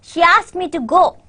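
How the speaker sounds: ASKED and GO stressed within an easy sentence. Shown as a demonstration. Teacher showing where the stress falls, stressed ASKED and GO. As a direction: lean on "asked" and "go", the other words lighter. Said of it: "your stress is on asked and go".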